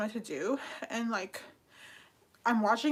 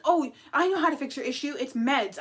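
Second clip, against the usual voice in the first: mock know-it-all; 2 semitones higher, 4 dB louder than usual. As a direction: parrot the smug advice-giver, brisk and superior. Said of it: "Everybody's like".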